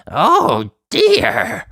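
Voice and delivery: dismayed gasp. Acted. Tiny Uppity shrinking before the boy, high dismayed gasp. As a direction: gasp as you suddenly shrink. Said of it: "he gasped".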